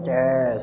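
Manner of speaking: drawn-out hissing "ces"; imitated drool sound. Teacher mimicking a dozing worshipper's drool, drawn-out drip sound. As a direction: stretch out a dribbling noise.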